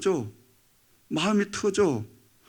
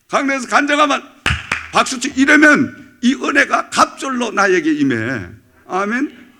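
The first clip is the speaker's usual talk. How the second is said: usual speaking voice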